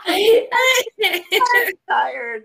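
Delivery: high, loud squeal through laughter; laughing hard. Real, not acted. Host excusing her blooper mid laughing fit, laughing hard. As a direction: wail it while cracking up.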